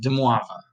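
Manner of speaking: "Demoivre" with the final R dropped. Shown as a demonstration. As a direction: end "Demoivre" on "vuh", without an R. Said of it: "not really doing that R at the end".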